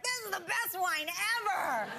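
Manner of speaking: laughing irony. Retold or imitated. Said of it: "We're like".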